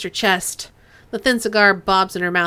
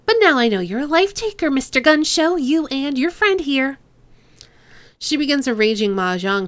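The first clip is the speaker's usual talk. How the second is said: a light nasal Hong Kong gangster lilt, teasing; Chang's nasal accent; 2 semitones higher than usual. Acted. Boss Chang sizing up the cop, light nasal accent. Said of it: "to do Kindly Chang's accent".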